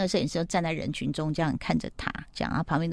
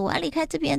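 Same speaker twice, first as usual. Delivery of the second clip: angry; 10 semitones higher, faster than usual. Retold or imitated. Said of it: "然后就很气".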